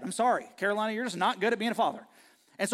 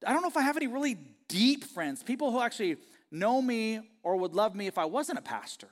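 retold self, hesitant; 5 semitones higher than usual. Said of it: "I said".

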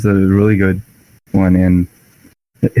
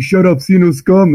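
angry shout; 11 semitones higher than usual. Retold or imitated. Ferrus roaring down the Eldar, mock furious shout. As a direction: bark the insult at the alien. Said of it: "And like".

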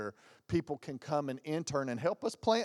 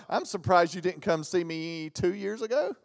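laughing doctor; 3 semitones higher than usual. Retold or imitated.

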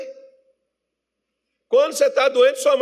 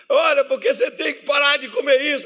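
higher, raised scolding voice; mock scolding doctor; 5 semitones higher, 3 dB louder than usual. Doctor telling off a patient about food, mock scolding.

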